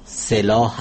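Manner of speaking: سلاح said slowly as se-laah; correct pronunciation. Shown as a demonstration. Linguist correcting broadcasters' mistakes, سلاح as se-laah. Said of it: "تلفظ درست صلاح".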